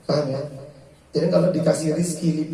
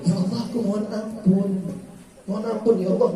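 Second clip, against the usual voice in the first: gentle, slightly higher humble prayer; sincere plea; 4 semitones higher than usual. Shown as a demonstration. Preacher showing the proper humble istighfar, gentle and sincere. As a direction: ask forgiveness sincerely.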